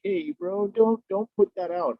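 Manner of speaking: high, stoned hippie drawl. Retold or imitated. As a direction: play the tripping hippie dude. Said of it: "comes up just like this hippie voice".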